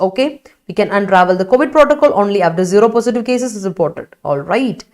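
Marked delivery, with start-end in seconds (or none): 0.7-4.1 slow, even classroom read; slow dictation reading. Shown as a demonstration. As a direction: read it out slowly, word by word, for the class. Teacher reads student sentence aloud.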